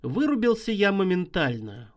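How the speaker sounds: plain reading voice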